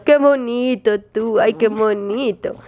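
slow, stretched pet talk; cooing. Real, not acted. Owner soothes jealous Nico with praise, cooing. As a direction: coo it slowly to a dog.

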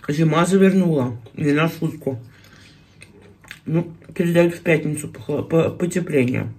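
chewing while talking; talking around food; mouth full. Real, not acted. Seen 1: Puts fish in mouth at -1s; lips puffed, chewing while talking.

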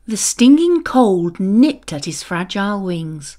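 usual speaking voice

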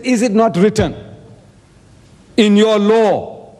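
mildly sarcastic quoted challenge. Retold or imitated. Jesus answering his accusers in a debate, sarcastic. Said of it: "He's sarcastic".

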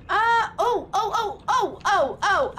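high laughing yelps of surprise; giggling high oh oh oh. Real, not acted. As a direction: laugh out a string of startled ohs.

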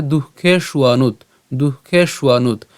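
দুঃখে সুয়ানুত run together as duhkhe-shuanut; joined pronunciation. Shown as a demonstration. Teacher shows the whole word together, দুঃখে সুয়ানুত joined up. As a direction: link দুঃখে সুয়ানুত into one unit. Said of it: "পুরোটা একসাথে উচ্চারণ করলে".

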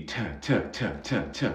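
"T" as repeated short bursts of air; aspirated T sound. Shown as a demonstration. Teacher isolates the consonant for learners, repeated puffed "T". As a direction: fire off "T" puffs one by one. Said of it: "You can see".

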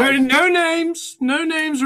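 high, loud cutting-in; urgent interruption. Acted. Cuts in to stop an introduction.

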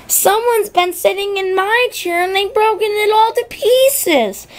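high little bear voice, lightly crying out; Baby Bear. Acted. Baby Bear finds his porridge gone, high and upset. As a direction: squeak it out like a small cub. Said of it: "cried Baby Bear".

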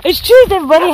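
high, laughing it's Tuesday; laughing greeting. Shown as a demonstration. Vlogger redoing her greeting to viewers, laughing and high. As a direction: giggle through the greeting.

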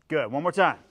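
ordinary talk

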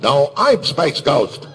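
slow, emphatic superhero claim; out-declare a rival hero, slowly; Space Ghost rivalry. Retold or imitated. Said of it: "back and forth we do the".

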